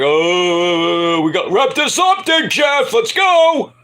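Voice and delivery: mock stagehand. Stagehand urging Jarrett to wrap up, high put-on voice. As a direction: squeak out a hurry-up. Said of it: "You're like".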